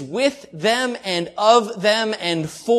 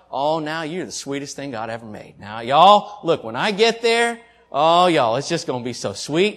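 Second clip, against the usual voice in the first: mock southern sweet talk; 4 semitones lower than usual. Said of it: "not just being southern sweet".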